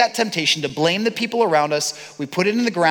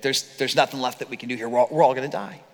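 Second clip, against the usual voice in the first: despair; 5 semitones lower, 4 dB quieter, faster than usual. Retold or imitated.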